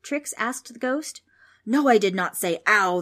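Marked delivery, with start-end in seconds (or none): 1.7-3.0 loud ghostly roar. A narrator's reading. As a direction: roar an indignant denial. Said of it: "the ghost roared".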